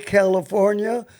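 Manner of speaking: usual speaking voice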